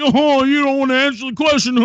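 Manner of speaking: laughing scornfully through the words; mocking laugh. Real, not acted. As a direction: laugh at him while you say it. Mocking the opponent's silence.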